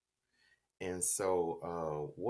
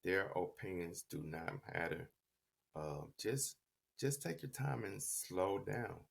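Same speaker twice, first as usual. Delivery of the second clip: soft, lightly voiced motherly reassurance; quiet, understated parental counsel; mother's advice; 5 dB quieter than usual. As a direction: retell a mother gently settling her son. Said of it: "she just told me".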